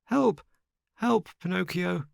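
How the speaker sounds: high-pitched alarmed plea; frightened cry for help. Acted. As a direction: call for help in sudden panic, very high. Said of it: "Pale as a ghost".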